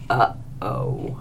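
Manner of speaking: soft breathless whisper. A narrator's reading. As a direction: hush it, as if trouble is coming. Staff goes deathly quiet.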